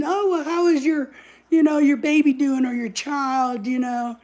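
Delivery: sneaky, prying sweetness; nosy busybody. Retold or imitated. Stranger fishing about the baby, lightly mock sweet.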